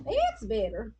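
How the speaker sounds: slight Southern twang slipping out; funny accent. Real, not acted. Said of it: "You just had a funny accent".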